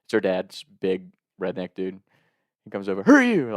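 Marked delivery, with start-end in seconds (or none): 3.0-3.5 loud, high mock holler; imitated scream. Redneck dad confronting his daughter's date, imitated scream. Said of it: "Like, screaming at me".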